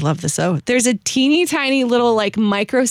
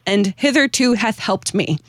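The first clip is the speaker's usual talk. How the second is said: slow, measured recitation of a hymn verse; slow solemn hymn recital; hymn reading; slower than usual. Acted. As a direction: read it out like a devout poem. Reads hymn stanza aloud.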